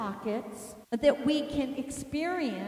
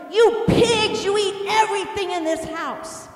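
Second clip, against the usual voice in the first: much louder, high-pitched angry yell; screaming mother; 8 semitones higher, 9 dB louder than usual. Retold or imitated. Mom standing over hungry kids, screaming and yelling. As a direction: scream it in full scolding rage. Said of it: "my mom screaming and yelling".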